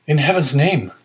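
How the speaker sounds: put-on a high, pleading cry from an unhappy young man; desperate cry. A narrator's reading. Prisoner pleading with the magistrate, a desperate high cry. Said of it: "cried the unhappy young man".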